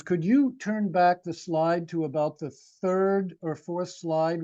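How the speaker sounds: ordinary delivery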